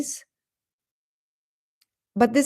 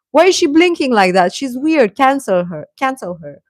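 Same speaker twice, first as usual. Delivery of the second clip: quick, louder mock of online haters; mocking hater netizens; 4 semitones higher, 5 dB louder than usual. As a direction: sneer like a spiteful netizen. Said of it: "they would say".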